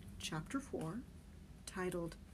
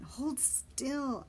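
groaning; 6 semitones higher, 3 dB louder than usual. Acted. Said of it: "I groaned".

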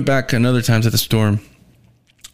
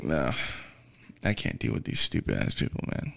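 whisper; 10 semitones lower, 8 dB quieter than usual. Retold or imitated. Fed up at the end.

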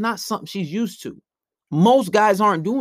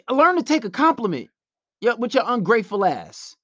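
scolding retort; 4 semitones higher than usual. Retold or imitated. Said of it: "That's what I would say to her".

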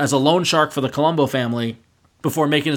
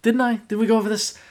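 pointed question; 7 semitones higher than usual. Retold or imitated. Re-quoting Jimmy.

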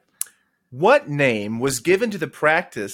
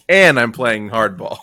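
mock tough; 7 dB louder than usual.

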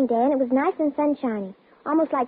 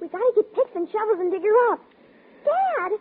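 urgent plea; 4 semitones higher than usual. Acted.

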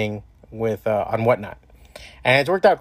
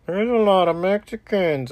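casual racist quote; 7 semitones higher than usual. Retold or imitated. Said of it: "or there's".

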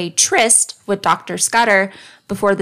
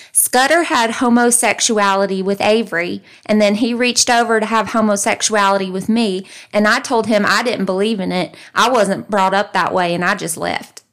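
put-on Southern country accent. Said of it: "I'm gonna say it in his country accent".

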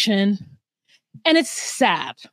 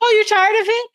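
higher sneering mimicry trailing into blah blah; mocking sarcastic mom; 4 semitones higher, faster than usual. Imitating Chevelle's mom mocking her daughter, sarcastic. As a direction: parrot her back with contempt. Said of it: "And she's like".

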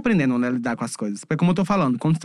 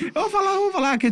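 voz aguda; 14 semitones higher than usual. Retold or imitated. Imita reação alta e surpresa.

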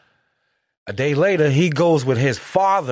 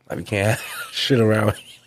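hushed. Retold or imitated. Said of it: "he's like".

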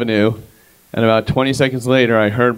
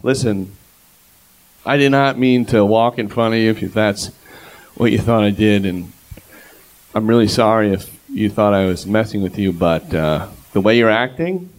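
replying calmly to the yelling stranger, earnest; sincere calm reply; 2 semitones lower than usual. Retold or imitated. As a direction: talk him down sincerely. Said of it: "So I go".

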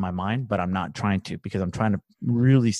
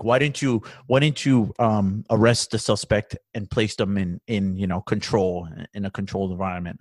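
mock boss. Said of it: "They'd be like".

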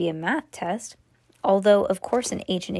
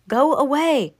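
higher, louder annoyed go away; 7 semitones higher, 6 dB louder, slower than usual. A narrator's reading. Sleepy brother shooing little brother, loud. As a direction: shoo him off.

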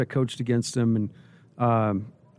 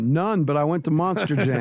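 laughing through the punchline; 3 semitones higher than usual. Retold or imitated. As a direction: giggle out the excuse. Joking reply to imagined cop.

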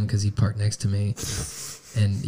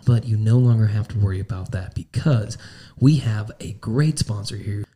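ad read. Acted. Reads a sponsor ad.

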